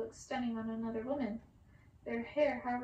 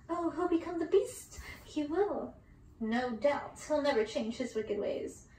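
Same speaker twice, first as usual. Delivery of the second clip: gloating sisters; 2 semitones higher, 4 dB louder than usual. Acted.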